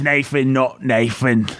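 lightly mocked British; British accent. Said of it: "Uh, British".

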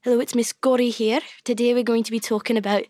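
put-on Scottish schoolteacher; Scottish accent. Girl imitating her old teacher to the hosts, Scottish accent. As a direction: greet the class in a Scottish accent. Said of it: "a Scottish Spanish teacher".

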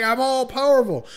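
high, loud mock boasting; gloating spellcaster. Villain boasts to his trapped victim after casting the spell, mock gloating. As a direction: crow about power, hammed up.

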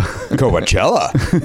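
"Coachella" split slowly into sounded-out pieces. Shown as a demonstration. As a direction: sound out "Coachella" like a phonics show. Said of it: "You electric company it".

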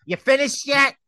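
curt, impatient and high; terse. Retold or imitated. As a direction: bark it out tersely. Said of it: "A very terse".

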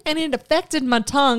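put-on Southern accent. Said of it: "butcher your accents now".

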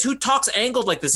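a hint of a movie psychiatrist; Peter Sellers impression. Shown as a demonstration. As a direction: show a crazy character's angled talk. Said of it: "doing an impression of Peter Sellers".

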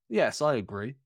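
measured, very correct "proper" delivery; a lightly regal, filler-free answer. Retold or imitated. Host imagining himself without fillers, lightly regal. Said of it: "Like, proper Regal".

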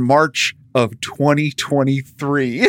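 slow, breaking into laughter; can barely get the date out for laughing; real laugh through the words. Real, not acted. Absurd delivery date, laughing.

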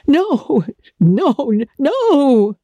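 high, frightened cry of refusal; almost screaming. A narrator's reading. Woman pleading with her, near-screaming in fright. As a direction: recoil in fear, voice jumping up. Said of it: "she almost screamed".

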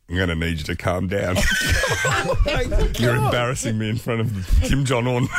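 a half-mock shout, told through laughter; Rodman telling him off. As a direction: boom it out like a big star telling off a rowdy guest. Rodman scolding a drunk producer.

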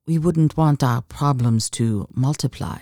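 understated purr with a French lilt. Acted. Woman teasing the accountant with arithmetic wordplay, purring. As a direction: toy with him in a subtle French accent. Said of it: "she purred".

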